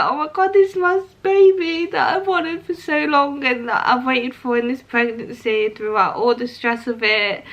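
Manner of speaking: reliving the moment through real tears; emotional quote of her own thoughts; choked up. Real, not acted. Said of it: "I can't believe I'm getting upset".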